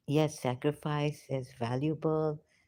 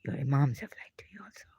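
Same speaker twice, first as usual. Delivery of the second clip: fast unvoiced whisper; secret, quick whisper; hurried whisper; faster than usual. Real, not acted. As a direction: rush it out in a whisper. Continues whispered confession.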